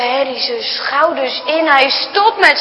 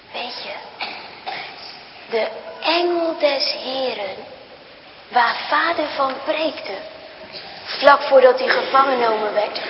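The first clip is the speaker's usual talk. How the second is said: a hint of a weak, soft mother; a sick mother's soft, low voice; faint mother; 4 semitones lower, 7 dB quieter than usual. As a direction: let the words fade out of a tired body. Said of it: "Bijna horen ze niet wat moeder zegt".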